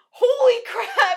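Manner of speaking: very high, very loud, shrill, acted-out shocked outburst. Recalling a scene that surprised them, the speaker retells a shocked exclamation. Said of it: "It really shocked me".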